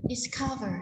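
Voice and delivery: "Discover" with COV brought out; stress on second syllable. Shown as a demonstration. Teacher shows students second-syllable stress, clear "Discover". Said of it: "trong âm số hai".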